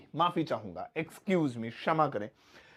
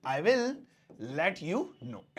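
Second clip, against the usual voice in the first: very slow, softer model phrase; slow demo; 5 dB quieter, much slower than usual. Shown as a demonstration. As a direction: stretch each word out for the class. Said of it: "ऐसे".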